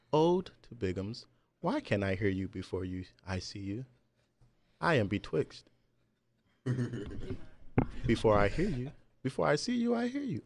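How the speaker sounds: hammed-up old English recital; shakespeare verse. Recites mock archaic ode.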